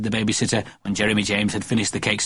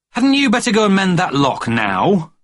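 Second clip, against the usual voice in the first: Mummy's pointed question; 7 semitones higher, 3 dB louder than usual. A narrator's reading. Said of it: "Mummy said to Daddy".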